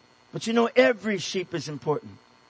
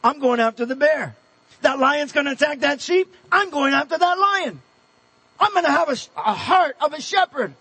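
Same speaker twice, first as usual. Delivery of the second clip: rising, fired-up resolve, pitch climbing higher; determined resolve; 3 semitones higher than usual. Retold or imitated. David vowing to chase the lion, building resolve. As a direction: build to a bold, determined vow. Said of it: "David says".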